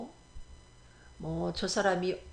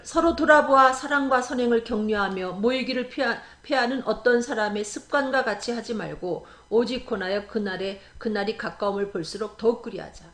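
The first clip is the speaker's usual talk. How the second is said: scripture reading; 4 dB louder than usual. Acted. Reads scripture aloud.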